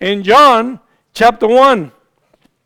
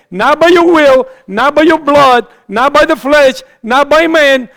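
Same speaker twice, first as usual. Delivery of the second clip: 1 forceful preaching; 5 semitones higher, 3 dB louder than usual. Real, not acted. Preacher hammers scripture's four negations.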